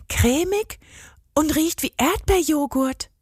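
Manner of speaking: put-on high whispered girl's voice; whispering. A narrator's reading. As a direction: whisper it, curious. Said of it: "flüsterte sie". (neugierig geflüstert)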